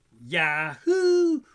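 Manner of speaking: loud whoop; mock cheer. Coaster fan whooping on the big drop.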